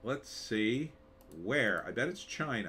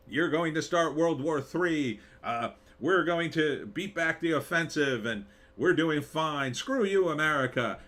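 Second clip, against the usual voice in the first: defiant Russians; 3 semitones higher, 5 dB louder than usual. Acted. Russians voiced defying America.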